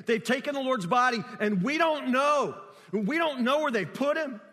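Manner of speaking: mildly agitated retelling of a grieving woman; distraught, words tumbling out. Retold or imitated. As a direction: voice her helpless not-knowing, a touch heightened. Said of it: "the words that tumble out of her mouth over and over and over".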